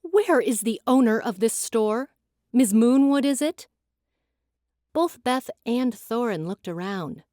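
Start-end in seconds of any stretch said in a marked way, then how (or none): 0.0-3.7 loud voice. Acted. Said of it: "a loud voice inquired".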